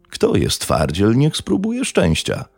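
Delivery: restrained snarl, slow start rising high; snarled challenge. A narrator's reading. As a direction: challenge them with a mild snarl. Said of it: "warknął".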